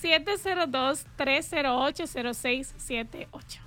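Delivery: slow, careful digits one by one; said slowly. Shown as a demonstration. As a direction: spell the number out slowly. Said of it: "Déjame decirlo despacito".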